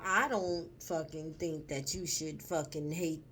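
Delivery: ordinary talk, nothing marked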